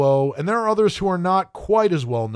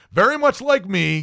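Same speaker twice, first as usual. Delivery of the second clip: laughing aside; 6 semitones higher than usual. Real, not acted. Joke about turning forty.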